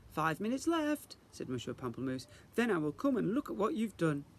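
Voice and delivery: teacher rallying the class; cheerful fairy teacher. Acted. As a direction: announce it with grand enthusiasm. Teacher calls time.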